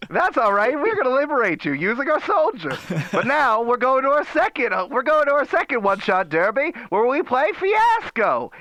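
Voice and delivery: put-on high, old-timey radio announcer voice; rootin' tootin' roaring-twenties showman; 1920s Gatsby voice. Host opening the derby in a 1920s Gatsby voice. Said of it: "nineteen twenties Great Gatsby voice".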